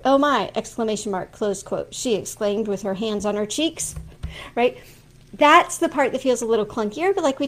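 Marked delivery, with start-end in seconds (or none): 0.0-3.9 saying each quote mark aloud; dictating. Shown as a demonstration. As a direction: dictate it, naming every mark. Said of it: "Actually, I would have to say open quote".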